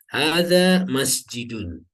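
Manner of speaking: Hadza masjidun read slowly, ending -un falling; slow clear model of masjidun. Shown as a demonstration. Teacher modelling the reading slowly for students. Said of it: "Yang betul adalah masjidun".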